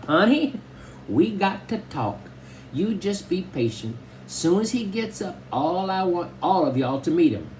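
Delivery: put-on high old Southern grandma voice; Grandma Sands. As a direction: fuss over the grandson like a tiny old granny. Grandma answers Mama.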